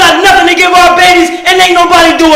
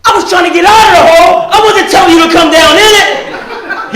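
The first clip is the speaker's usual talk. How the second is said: exasperated protest; 4 semitones higher than usual. Retold or imitated. Man in hole protests.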